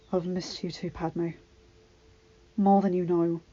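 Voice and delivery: soft tender. Acted. Husband soothing crying wife.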